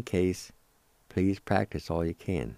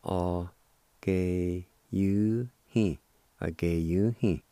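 spelled slowly; slower than usual. Shown as a demonstration. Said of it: "pronounced like this".

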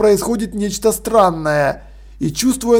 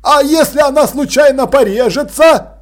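выше и громче; тревожно спрашивает; встревоженный Крохобор; 6 semitones higher, 4 dB louder than usual. Acted. Крохобор волнуется. (Крохобор тревожится за девочку, высоким голосом)

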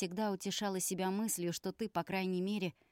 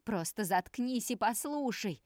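shouting through tears, pitched up; tearful shout; 4 semitones higher, 3 dB louder than usual. Acted. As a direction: yell it, close to crying. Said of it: "крикнул Алексей со слезами на глазах". (крик сквозь слёзы)

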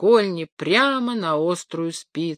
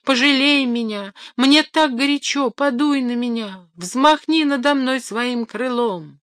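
higher, weak begging cry; pleading; 6 semitones higher than usual. Acted. Rooster begs the wind, higher and pleading. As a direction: beg the wind for mercy. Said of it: "прошептал тринадцатый".

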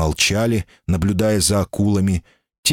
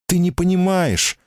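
high, grieving plea; pained and crushed, voice lifted high; grief-stricken; 12 semitones higher than usual. A narrator's reading. Woman insisting to him in grief, sorrowful. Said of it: "сокрушённо сказала она".

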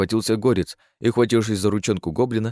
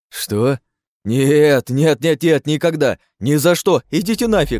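rising into a higher, louder refusal; panicked refusal; 6 semitones higher, 5 dB louder, slower than usual. Acted. Chief to grinning comrades, refusing in rising loud panic.

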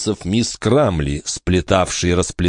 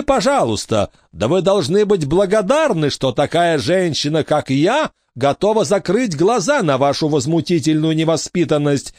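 prim, high, disapproving matron voice; a stern lady warning the orphans of her rules; stern strict lady; 8 semitones higher than usual. A narrator's reading.

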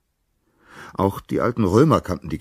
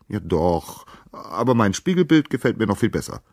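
tag; 6 semitones higher, 3 dB louder than usual. A narrator's reading. Narcissus brushes Echo off.

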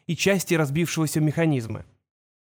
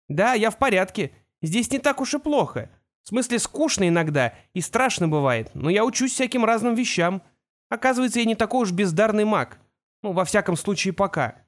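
put-on young boy's voice, a bit higher; a son talking to his father, lightly raised boy voice; boy Kol; 5 semitones higher than usual. Kol reassures his father over the whirlwind, young boy voice.

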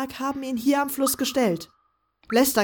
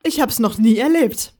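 grinning reply, a little louder; 4 dB louder than usual. Acted. Velaya answers the joke about Taurus, grinning. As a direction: toss it back with a grin. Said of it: "gab sie grinsend zurück".

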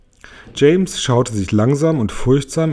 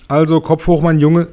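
höher und lauter, ermutigend; munter, dem Jungen Mut machend; aufmunternd; 5 semitones higher, 3 dB louder than usual. Acted. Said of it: "sagte der Tausendfüßler". (Tausendfüßler ermuntert James, hoch und laut)

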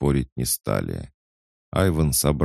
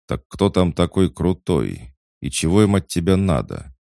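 louder, higher pressing questions; persistent, raised-voice challenge; insistent; 5 semitones higher, 5 dB louder than usual. A narrator's reading. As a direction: keep pushing for an answer. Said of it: "не унимался Бадабум".

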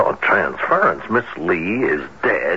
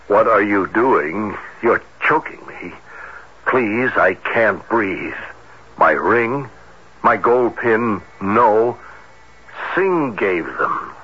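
slow, slightly raised voice, a touch of panic; reading out a terrified plea; 3 semitones higher, slower than usual. Retold or imitated. Captain reading the dead woman's plea aloud, mild fear. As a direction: read the victim's choking words with understated dread. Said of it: "The words were spoken in horror and anguish".

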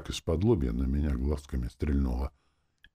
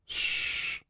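sharp hiss through closed lips; 5 dB quieter than usual. A narrator's reading. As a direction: hiss through tight lips like an angry girl. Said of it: "зашипела сквозь сжатые губы девчонка". (шипение сквозь сжатые губы)

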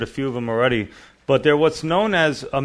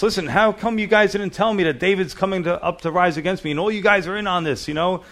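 paranoid accusation; 6 semitones higher, faster than usual. Retold or imitated. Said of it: "He's paranoid".

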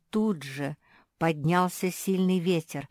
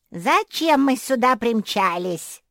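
higher, louder, slow squeal of a nasty dragon; nasty shrill dragon; 7 semitones higher, 10 dB louder, slower than usual. A narrator's reading. A dragon lands in the desert, shrill and nasty. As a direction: screech like a mean beast. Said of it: "противный визгливый голос".

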